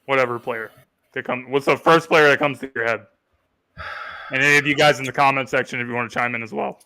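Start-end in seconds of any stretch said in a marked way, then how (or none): 5.8-6.8 voice crack. Real, not acted. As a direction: voice cracking mid-sentence. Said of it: "Voice crack".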